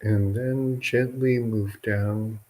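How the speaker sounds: measured meditation guidance with long pauses between phrases; guided meditation. Real, not acted. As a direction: guide listeners gently into relaxing, leaving long silences.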